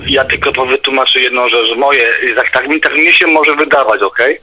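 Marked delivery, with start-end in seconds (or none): none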